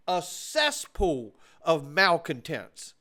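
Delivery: slow, heavy weight on "cesspool"; stress on cesspool. Real, not acted. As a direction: drag out "cesspool" with disgust. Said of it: "I mean a cesspool".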